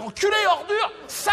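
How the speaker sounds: the whole press hurling insults at the comedian; mock outraged press. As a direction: screech it like a howling tabloid mob.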